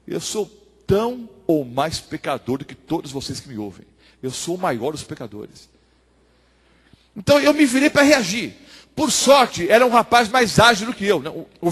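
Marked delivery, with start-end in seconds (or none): 0.1-5.7 low, soft admission of guilt; humble confession. Acted. Pastor answers objecting listeners, low humble confession. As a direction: drop to a quiet, humble register.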